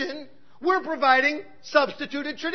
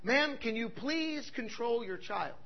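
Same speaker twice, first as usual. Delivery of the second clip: slow, soft, strained politeness; mildly acted annoyed stranger; irritated request; 2 semitones lower, 9 dB quieter, slower than usual. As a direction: ask through clenched patience. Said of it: "she looks back at the lady and says".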